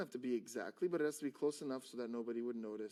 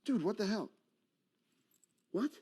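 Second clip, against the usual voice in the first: raised, exasperated scolding; annoyed; 8 semitones higher, 5 dB louder than usual. Shown as a demonstration. Magician scolds his stick-man assistant, annoyed. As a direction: snap loudly at a useless partner. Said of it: "Like, I'm annoyed".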